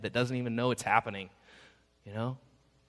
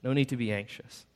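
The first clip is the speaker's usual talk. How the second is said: tender reassurance. Shown as a demonstration. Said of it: "So hear it like that".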